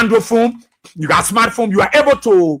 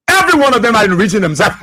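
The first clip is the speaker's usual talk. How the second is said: accusation breaking into laughter; laughing. Real, not acted. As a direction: end the line in a real laugh.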